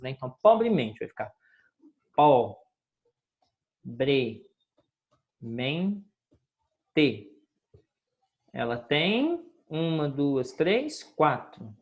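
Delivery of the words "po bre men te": "po-bre-men-te" very slow, a long pause after each syllable. Shown as a demonstration. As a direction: split "po-bre-men-te" into four separate, drawn-out syllables. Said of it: "separe as, as palavras".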